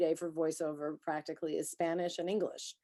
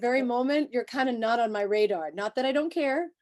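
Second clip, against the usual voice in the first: animated emphasis; 5 semitones higher, 7 dB louder than usual. Real, not acted. Playful exaggerated confession to talent.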